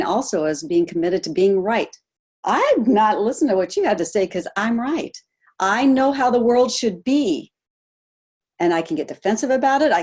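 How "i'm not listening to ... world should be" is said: self-righteous. Acted. Acting out a closed, righteous person.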